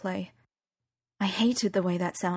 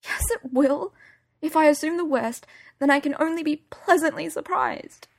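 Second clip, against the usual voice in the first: higher, tearful but defiant; teary stubbornness; 8 semitones higher, 3 dB louder than usual. Acted. Daughter arguing with her mum, teary and stubborn. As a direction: argue back through tears.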